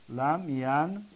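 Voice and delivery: لم ینکسر split slowly as lam, yan, ka, sir; syllable by syllable. Shown as a demonstration. Teacher breaking down the negated past, syllable by syllable. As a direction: sound out لم ینکسر with pauses between syllables.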